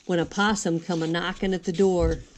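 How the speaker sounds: singsong storybook narration; reading to children. A narrator's reading. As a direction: read the rhymes gently to little ones. Reads a rhyming picture book.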